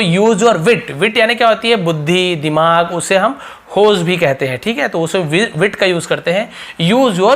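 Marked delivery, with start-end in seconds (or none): 0.0-1.0 drawn out, every word held; slow model phrase. Shown as a demonstration. Teacher slowly modelling an English phrase. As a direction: stretch it so learners hear it.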